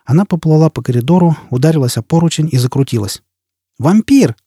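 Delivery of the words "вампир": high, louder cry of "Вампир!"; shouted insult. Acted. Jiz, pushed away, screams at Foyle. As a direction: fling it across the corridor. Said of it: "крикнула она".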